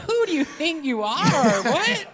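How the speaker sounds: mock outrage through laughter; high, laughing "What?" of disbelief. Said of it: "I was like".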